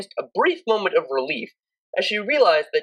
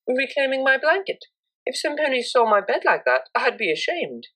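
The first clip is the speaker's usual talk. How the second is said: higher, lightly voiced prim mare; prim mare, matter-of-fact; 7 semitones higher than usual. A narrator's reading. Octavia explaining to Vinyl why she takes her blanket, prim and higher. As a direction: state it like the obvious thing.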